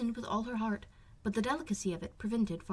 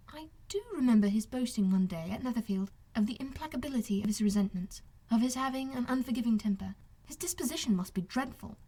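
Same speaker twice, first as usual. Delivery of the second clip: lightly voiced young lady; 3 semitones higher than usual. Elizabeth voiced higher.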